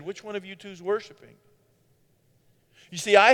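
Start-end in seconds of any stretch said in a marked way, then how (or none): 0.0-1.4 quiet whisper. Retold or imitated. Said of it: "the Lord just quietly whispered".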